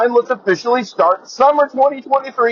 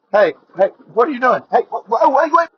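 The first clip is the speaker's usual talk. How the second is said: rising playful protest, pitch climbing higher; mock alarm; 4 semitones higher, faster than usual. Host pretending to be interrupted mid-show, mock alarmed. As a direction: pretend to be startled and cut in.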